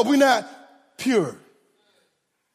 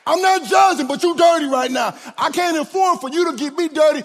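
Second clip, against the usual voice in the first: forceful preaching; 4 semitones higher than usual. Real, not acted. Preacher shouting.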